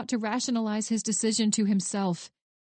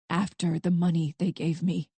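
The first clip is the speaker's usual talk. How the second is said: through clenched teeth; 4 semitones lower than usual. Acted. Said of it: "grate the words out from between clenched teeth".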